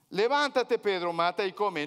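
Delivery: loud, commanding divine call; booming voice of God. Acted. God commanding Peter loudly. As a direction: boom out the command from heaven.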